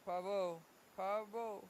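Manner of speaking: pavo with a try at a rolled r; pavo, attempting a Spanish trilled r. Shown as a demonstration. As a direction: push the tongue to roll it in pavo. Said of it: "You're rolling your tongue".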